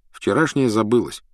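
usual speaking voice

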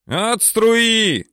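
loader's shouted warning. A narrator's reading. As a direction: warn those below to clear the blast. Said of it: "кричит третий номер и добавляет".

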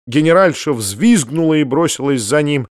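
plain reading voice

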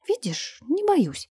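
said softly, nearly a whisper; a softly spoken dare. A narrator's reading. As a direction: hush the words, brave but quiet. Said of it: "прошептала она".

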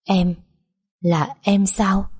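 wondering, as to a lost love; tender. Acted. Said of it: "Giọng cậu nghe rất dịu dàng".

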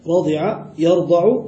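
رضع يرضع said radi'a yarda'u; fatha in present verb. Shown as a demonstration. Teacher demonstrates vowel pattern, radi'a yarda'u for رضع يرضع. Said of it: "بفتحها وبالعكس".

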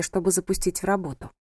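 usual speaking voice

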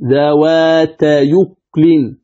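ذوات يكل very slowly, joined as "dhawātayukulin" with no hamza; hamza transfer reading. Shown as a demonstration. Teacher showing how it reads after transfer, ذوات يكل slow and joined. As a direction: draw out ذوات يكل, gliding "yu" straight into "kulin". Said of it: "فكيف تقرأ بعد النقل".

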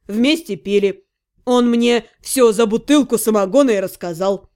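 gossiping friend. Acted. Friend retelling the guard's story over beer, lightly voiced gossip. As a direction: spill the insider story in a light male character voice.

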